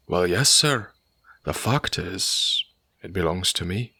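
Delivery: landlord admits the houses are his, apologetically proud; apologetic, timid pride. Acted. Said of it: "The avowal was made apologetically".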